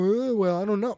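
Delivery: mock waffling, pitched a little up; wishy-washy. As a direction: imitate someone hemming and hawing. Mimics a wishy-washy flip-flopper.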